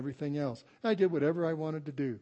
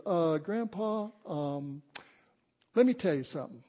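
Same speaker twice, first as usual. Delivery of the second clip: Skylar; 2 semitones higher than usual. Retold or imitated. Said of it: "that Southern accent like Skylar does".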